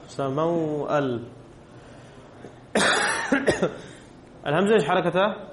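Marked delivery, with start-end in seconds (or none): 0.1-1.2 سموأل drawn out slowly, word by word; slow dictation. Shown as a demonstration. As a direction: spell سموأل out slowly for the students. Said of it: "طيب، ننظر".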